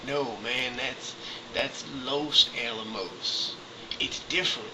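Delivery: mock the dispatcher's patient correction; dispatcher explaining. Dispatcher explaining Los Alamos, slow and patient. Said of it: "And he's like".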